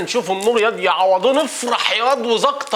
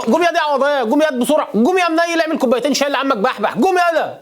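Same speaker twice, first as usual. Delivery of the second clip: raised, urgent ordering about; bossy hurrying; 4 semitones higher than usual. Acted. Hajj ordering his disciple to make tea for the guest, bossy and urgent. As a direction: chivvy him along, pitch climbing.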